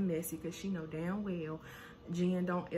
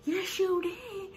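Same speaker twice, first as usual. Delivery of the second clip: much higher, louder and slow, stretched out; sharp retort; 12 semitones higher, 5 dB louder, slower than usual. Retold or imitated. Brandy snapping back at Malaysia, high and loud. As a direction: fire it back in a high yell. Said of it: "And here go Brandy".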